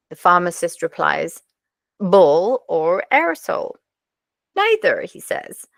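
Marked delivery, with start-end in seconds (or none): 2.0-3.8 put-on slow, lilting comic Swedish accent; drawn-out mock-Swedish with swooping vowels. Pharmacist answering a customer in a joke, slow comic Swedish accent. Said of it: "thinking about accents". 4.6-5.0 put-on high-pitched comic Swedish accent; sing-song mock-Swedish, starting high. Swedish customer turning down both choices, high comic Swedish accent. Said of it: "thinking about accents".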